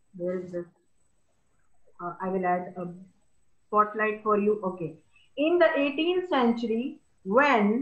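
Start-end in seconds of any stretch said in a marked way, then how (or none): 5.3-7.8 brief pause after "century", "when" lifted in pitch. Demonstrating expressive reading aloud to viewers, pause at comma then higher tone. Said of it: "I stopped on the comma, and then the next word I made a little high tone".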